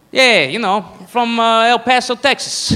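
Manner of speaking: lightly drawled Texan; a hint of Texan twang; mock El Paso Texan. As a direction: play a proud local from El Paso. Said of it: "it is the only accent that does that".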